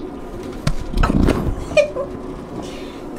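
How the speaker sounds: high, breathy laugh; long voiceless giggle. Real, not acted. Laughs while with the cats.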